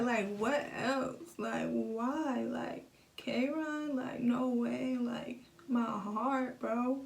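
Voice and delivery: slow, drawn-out words on the edge of crying; real tears welling, voice straining slowly; near tears. Real, not acted. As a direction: let the grief choke the words as they come. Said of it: "I'm gonna cry".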